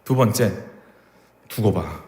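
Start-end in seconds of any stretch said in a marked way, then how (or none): 1.5-2.0 vengeful slave. Retold or imitated. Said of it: "막 이런 거".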